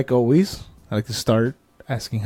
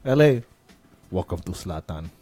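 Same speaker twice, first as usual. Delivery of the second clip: horrible sound-bite impression; 7 semitones lower than usual. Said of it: "that was a horrible impression".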